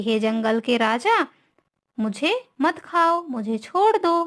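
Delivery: lightly acted plea, rising in pitch; pleading mouse. Mouse begs the lion not to eat him, mildly pleading. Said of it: "उससे विनती की चूहे ने".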